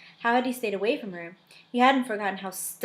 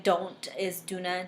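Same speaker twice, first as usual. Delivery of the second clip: Scottish brogue; slower than usual. Shown as a demonstration. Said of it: "read with that Scottish brogue".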